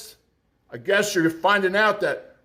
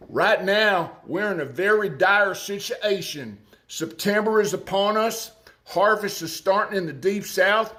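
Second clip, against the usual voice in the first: put-on Arkansas accent. Commentator quoting a soybean farmer for viewers, Arkansas accent. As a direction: read it in your best Arkansas accent. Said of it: "do it in my best Arkansas accent".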